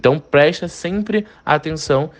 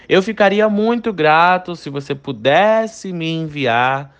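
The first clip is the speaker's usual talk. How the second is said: slow, tactful tune stretching "pudesse"; polite request intonation; 3 semitones higher, slower than usual. Shown as a demonstration. Teacher translates a request to a superior, polite intonation. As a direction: draw out "muito grato", rise towards "me enviar". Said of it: "teve uma mudança de entonação".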